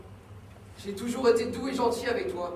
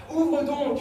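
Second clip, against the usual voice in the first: loud, higher command; angry demand; 5 semitones higher, 4 dB louder than usual. Acted. Son shouts at his mother to open. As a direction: hammer the order home.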